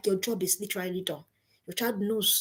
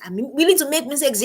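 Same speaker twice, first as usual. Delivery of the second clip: louder, firmer declaration; emphatic repeat; 3 semitones higher, 6 dB louder than usual. Shown as a demonstration. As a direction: punch it out the second time. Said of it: "repeated for emphasis".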